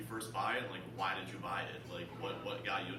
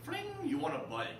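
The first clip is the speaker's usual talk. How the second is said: laughing quote; 8 dB louder than usual. Retold or imitated. Seller's surprise message, laughing retelling.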